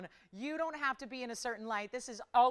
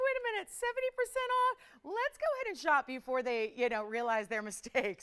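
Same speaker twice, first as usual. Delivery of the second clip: excited; 4 semitones higher, 3 dB louder than usual. Retold or imitated. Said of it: "So I'm like".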